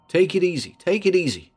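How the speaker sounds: calm him, gently; soothing. Acted. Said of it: "he soothed".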